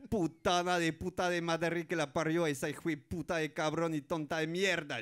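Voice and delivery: put-on Spanish cursing in a Mexican accent; mock Mexican-accented swearing. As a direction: rant like a Mexican cartoon penguin. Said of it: "parle avec un accent mexicain".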